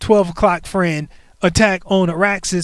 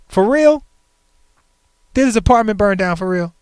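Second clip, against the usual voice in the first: higher, louder double-check; stunned for real; 4 semitones higher, 4 dB louder than usual. Real, not acted. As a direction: push up in real disbelief. Checking if apartment burned.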